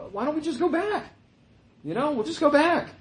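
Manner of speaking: high, whiny mock of the complaining Israelites; mocking grumblers. Preacher mocking the Israelites' wish to return, high whiny voice. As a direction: mimic them like spoiled children wanting to go home. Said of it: "I'm kind of making fun of this".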